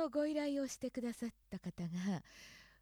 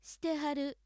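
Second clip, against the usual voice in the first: Osaka usage; 3 semitones higher than usual. Shown as a demonstration. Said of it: "大阪では".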